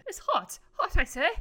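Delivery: a hint of mid-Atlantic accent, laughing; mock mid-Atlantic accent. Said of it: "Lisa has a mid-Atlantic accent".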